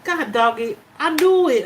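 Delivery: scolding herself for getting emotional; exasperated outburst. Real, not acted. Vlogger annoyed at tearing up, exasperated. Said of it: "And I still didn't get my little towel".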